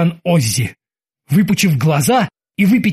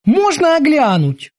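high, slow bosun voice; high-pitched character voice; bosun Kiki, curious; 11 semitones higher than usual. Acted. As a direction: ask eagerly in a high, drawn-out voice.

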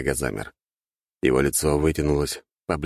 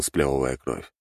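usual speaking voice

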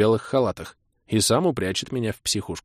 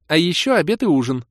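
put-on high, loud bargaining young woman; setting her terms; demanding Kira; 8 semitones higher, 4 dB louder than usual. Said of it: "поставила условие Кира".

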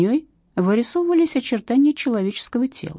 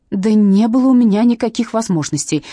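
louder protest; indignant interruption; 5 semitones higher, 8 dB louder than usual. Acted. Witness interrupting the captain, indignant. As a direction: cut in indignantly. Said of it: "перебила её Катя".

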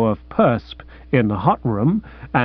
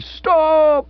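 mild shout; 14 semitones higher than usual. Acted. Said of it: "A voice shouted".

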